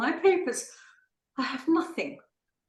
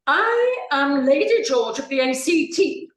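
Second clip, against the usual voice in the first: louder, haughty declaration of rank; indignant insistence; 3 semitones higher, 5 dB louder than usual. Acted. Lady insisting to the doctor, indignant and loud. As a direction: demand to be recognised.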